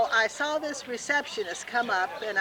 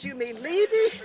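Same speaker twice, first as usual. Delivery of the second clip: laughing; 4 semitones higher, 4 dB louder than usual. Retold or imitated. Husband's answer, she laughs.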